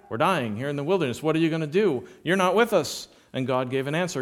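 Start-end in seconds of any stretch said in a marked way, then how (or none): 0.1-3.1 rising complaint. Acted. Preacher acts people's complaint.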